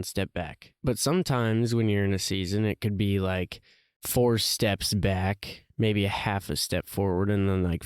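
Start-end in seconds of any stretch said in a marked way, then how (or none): 4.0-5.7 slow emphatic. Acted. Emphasizing setback.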